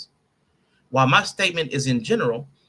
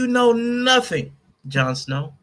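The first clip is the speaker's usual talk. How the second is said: slow, higher, put-on TV quote voice; mock Ygritte line; 7 semitones higher, slower than usual. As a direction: deliver it like the Game of Thrones wildling. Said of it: "quoting Game of Thrones line".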